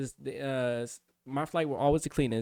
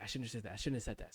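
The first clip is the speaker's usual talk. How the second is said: much softer self-reproach; under-breath regret; 3 semitones lower, 12 dB quieter, much faster than usual. Retold or imitated. Trainee regrets his answer to himself, much softer. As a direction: mutter it to yourself.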